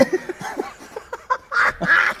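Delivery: loud, high wheezing laugh; real high laughter. Real, not acted. Comedian cracks up retelling the woman's reaction, loud high laughter. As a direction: crack up helplessly. Speaker cracks up at own story.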